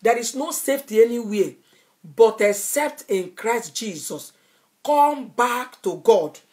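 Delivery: reenacted preacher's cry, slowing into each phrase; retold shout. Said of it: "I was shouting".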